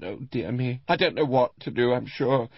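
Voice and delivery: put-on high, fussing old lady in a tipsy dither; tipsy fretful old woman. Tipsy Mrs Rival fretting.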